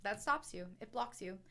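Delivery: speaking with gum in mouth; words around chewing gum. Real, not acted. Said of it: "I just realized that I have gum in my mouth".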